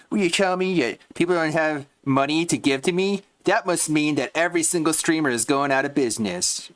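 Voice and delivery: high, mocking whine of the streamer's excuse; lightly voiced whiny streamer. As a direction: parrot his excuse back in a high sneer.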